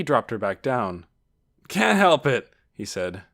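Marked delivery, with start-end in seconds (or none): 1.7-2.5 loud, raised retort; hearty nephew. A narrator's reading. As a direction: brush off an aunt's scolding boisterously. Nephew answers scolding aunt.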